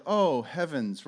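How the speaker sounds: slow, understated mock composure; mock pastoral calm. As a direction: say it with exaggerated pastoral restraint. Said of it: "very pastorally and professionally reacted".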